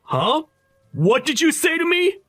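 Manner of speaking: high, indignant shouting; outraged. Acted. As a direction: bristle at the insult. Groom outraged at being insulted.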